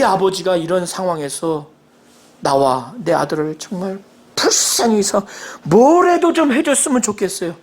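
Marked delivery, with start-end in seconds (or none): 2.4-7.6 a father's voice catching with tears; begging through a sob; tearful plea. Acted. Father begging Jesus for his son, tearful.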